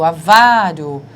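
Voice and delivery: "avaro" slow and loud, stress on "va". Shown as a demonstration. ("avaro" lento, tônica em "va")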